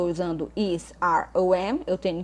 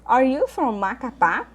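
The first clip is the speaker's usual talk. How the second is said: slow, louder English question; slow model reading; 5 semitones higher, 5 dB louder, slower than usual. Shown as a demonstration. Teacher reading exercise A to students, slow and clear. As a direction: read the exercise item out slowly and clearly. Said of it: "teacher rereads exercise item".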